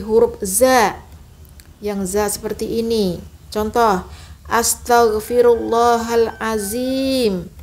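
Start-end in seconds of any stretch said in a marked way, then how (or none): 4.5-7.5 astaghfirullahalazim with a za, slow; wrong za. Shown as a demonstration. Teacher shows the za mistake. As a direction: say the zim like za.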